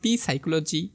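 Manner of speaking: পি সাইকোলজি with the silent P said aloud as "পি" first; silent letter voiced. Shown as a demonstration. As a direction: sound out "পি" before সাইকোলজি. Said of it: "So মনে রাখবা". (নীরব পি উচ্চারণ করে পি সাইকোলজি বলা)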